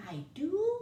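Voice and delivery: put-on whispered curious child's question; little boy curious about what he has inside, whispered. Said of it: "Moncho asked curiously".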